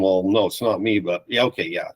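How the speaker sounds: bashful retold admission; sheepish. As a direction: play it down sheepishly, then give in. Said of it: "trying to be sheepish and pretend".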